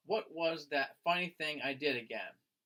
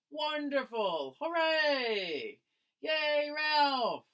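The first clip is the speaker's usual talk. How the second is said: high, loud cheer; 10 semitones higher, 4 dB louder, much slower than usual. Acted. Classmates cheering Ralph after his story, loud cheering.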